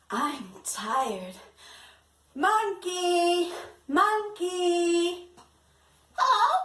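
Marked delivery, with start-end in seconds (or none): 2.4-5.3 sing-song call, higher and louder. Acted. Teacher calling the puppet Monkey, sing-song. 6.2-6.6 high squeaky puppet hello; a little puppet answering. Acted. Puppet Monkey answering teacher, much higher.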